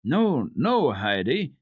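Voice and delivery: reproving. A narrator's reading. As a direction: scold the child gently but firmly. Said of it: "said her grandfather reprovingly".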